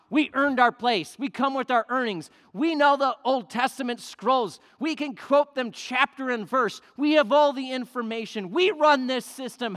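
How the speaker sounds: proud, self-righteous ranting; indignant Pharisees. Acted. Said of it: "began to grumble, saying".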